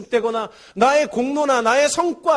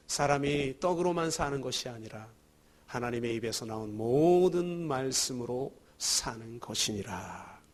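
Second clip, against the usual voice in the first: softer, lower solemn scripture reading; scripture quotation; 8 semitones lower, 8 dB quieter than usual. Acted. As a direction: intone the Lord's words gravely. Quoting Jesus' scripture words.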